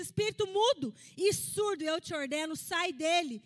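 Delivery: loud, forceful command to a demon; preaching Jesus casting out a spirit, loud and stern; commanding rebuke. Acted. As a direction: order the spirit out with authority.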